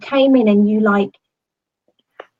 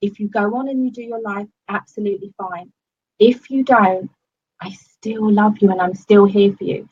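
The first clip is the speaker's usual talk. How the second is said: reassuring. Retold or imitated. Coach's reassuring words quoted.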